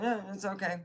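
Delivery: flat monotone voice. Retold or imitated. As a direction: say it flat, no life. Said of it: "very monotone".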